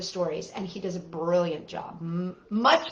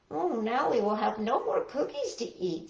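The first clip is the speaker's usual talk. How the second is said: sadly; 6 dB quieter than usual. Acted. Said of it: "said Toad sadly".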